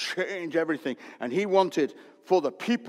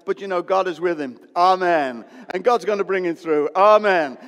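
louder, firm amens closing each line; confident amens; 6 dB louder than usual. Shown as a demonstration. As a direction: affirm it boldly. Modelling fitting amens.

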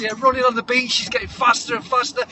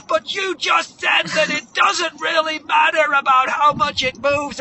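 loud, high objection; acted indignant protest; 8 semitones higher, 5 dB louder than usual. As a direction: argue back in mock exasperation. Moana arguing back at trainer.

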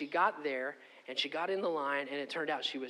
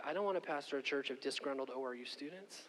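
laughing; 5 dB quieter than usual. Retold or imitated. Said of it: "I remember telling the Lord".

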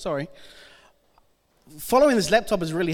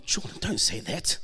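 mock shocked; 8 semitones lower, 8 dB quieter than usual. Real, not acted. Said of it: "gasps Oh".

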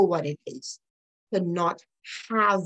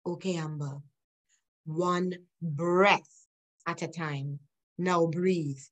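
gentle soothing voice; 3 semitones lower, slower than usual. Retold or imitated. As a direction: ease her through one breath. The Lord's voice soothing her.

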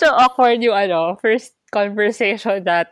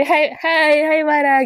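mock friendly greeting; 5 semitones higher, slower than usual.

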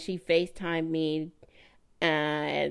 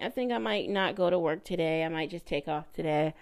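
imitating her offhand announcement; quick, casual and unbothered; playing it cool; faster than usual. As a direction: toss it out like no big deal. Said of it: "she just seemed cool".

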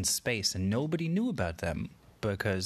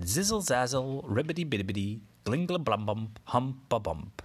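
magic spell; 3 semitones higher than usual. Acted. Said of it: "And he said".

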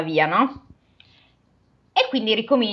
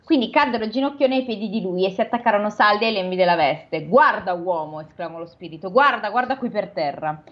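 measured storybook reading voice; steady read-aloud narration; story narration. A narrator's reading. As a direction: read it like a classic novel aloud. Reads the novel aloud.

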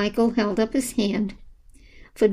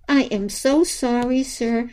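sputtering between yowls; 3 semitones higher than usual. Acted. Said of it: "she sputtered between yowls".

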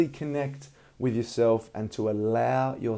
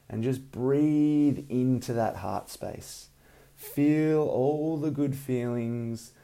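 calm breathing guidance, unhurried; soothing massage murmur. Acted. Leads a guided meditation.

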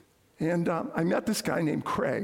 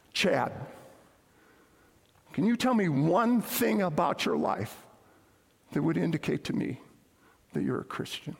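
measured authority with long pauses; deep, authoritative. Retold or imitated. Campus mentor challenges the football player, deep and authoritative. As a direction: imitate a deep, authoritative mentor, dropping low at the end. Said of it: "in a very deep and authoritative voice".

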